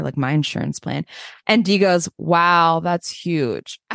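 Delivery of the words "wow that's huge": flat, bored "Wow, that's huge"; deadpan unimpressed. Retold or imitated. Imitating Dee lying back, deadpan and unimpressed. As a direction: say it without caring at all. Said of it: "doesn't turn her head to look at him".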